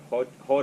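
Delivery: "hod" for hold, with the L dropped; attempted Glaswegian pronunciation. Shown as a demonstration. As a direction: try out "hod" with no L. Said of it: "so I can't say".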